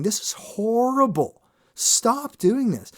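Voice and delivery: mocking inner critic. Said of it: "your brain shitting on you, going".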